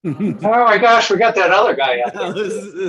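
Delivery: slow, loud laughing exclamation; delighted surprise, laughing; amused surprise. Real, not acted. Surprised by another participant joining.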